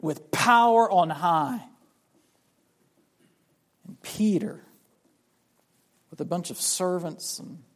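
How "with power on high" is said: bold proclamation. Retold or imitated. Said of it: "standing up and saying".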